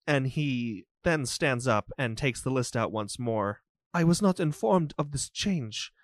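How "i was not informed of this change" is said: a hint of a fussy, formal steward, a bit fast; bowing and apologizing in a lightly put-on voice; lightly voiced steward. Steward greets the lady at the estate, lightly voiced and apologetic. Steward checks his guest list.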